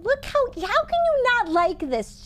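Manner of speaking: gushing over cute. Real, not acted. Gushing over cute toy dinosaur.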